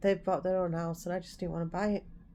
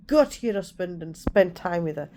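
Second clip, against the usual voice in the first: louder, fed-up retold snap; snapped tone; 6 dB louder than usual. Telling her sister to leave her alone, louder snap. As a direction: snap it out like you've had enough. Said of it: "That's the tone I used".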